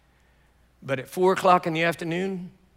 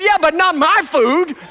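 possessive retort; 10 semitones higher, 10 dB louder than usual. Retold or imitated. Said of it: "He said".

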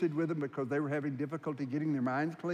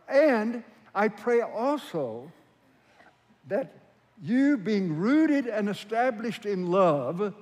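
loud, raised, deliberate proclamation; emphatic scripture reading; 4 semitones higher, 6 dB louder, slower than usual. Acted. Preacher reading Paul's prayer about love to the congregation, declaiming. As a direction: declaim it phrase by phrase with weighty pauses.

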